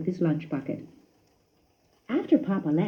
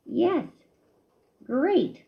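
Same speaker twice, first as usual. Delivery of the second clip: miserably; 8 semitones higher than usual. A narrator's reading. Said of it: "said Christopher miserably".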